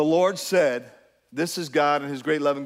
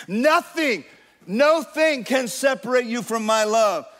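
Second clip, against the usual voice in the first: voice of God; 5 semitones higher than usual. Acted. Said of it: "the Lord whispers".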